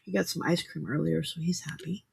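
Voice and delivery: soft whisper so the cat sleeps on; whispered beside a sleeping cat. Real, not acted. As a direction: hush it to a whisper. Cat asleep in basket.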